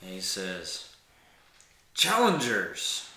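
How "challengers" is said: loud, raised, drawn-out proclamation; booming voice. Acted. Armored foe hailing the two challengers, booming voice. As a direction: boom it out slowly across the arena. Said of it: "he has his booming voice".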